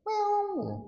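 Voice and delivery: squeaky high kitten meow, far too high; absurd tiny meow from a tiger. Retold or imitated. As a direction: make the fierce tiger mew like a kitten. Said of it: "Atau ada macan serem". (meong kucing kecil bernada sangat tinggi)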